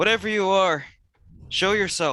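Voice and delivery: loud, high shouted voice. Voicing a character who challenges an unseen presence: shouting out. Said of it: "And then he shouts out".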